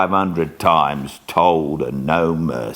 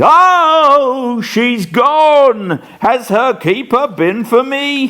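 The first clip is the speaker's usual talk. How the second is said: high, loud gasp of relief then anxious question; shaky relief; 5 dB louder, slower than usual. Acted. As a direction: relief still trembling with fear. Dying man, relieved after raving.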